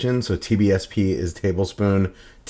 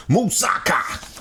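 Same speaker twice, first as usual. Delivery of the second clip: sing-song; 8 semitones higher than usual. Acted. Echoes dish name.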